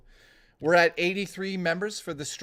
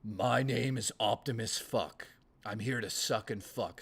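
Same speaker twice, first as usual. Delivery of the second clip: joke impression; 6 semitones lower, 6 dB quieter than usual. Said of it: "I do great impersonations".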